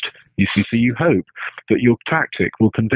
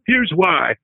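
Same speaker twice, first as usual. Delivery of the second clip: higher-pitched take on Clinton; a hint of Bill Clinton; Clinton impression; 7 semitones higher than usual. Shown as a demonstration. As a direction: do your one Clinton line, pitched up. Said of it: "but I can do".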